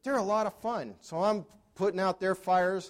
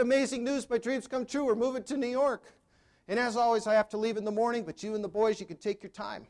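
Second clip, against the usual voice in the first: higher, eager burst of good news; bubbling over with his big announcement, then trailing off; retold excitement; 5 semitones higher than usual. Husband gushing to his wife about New York, excited. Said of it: "I got home all excited".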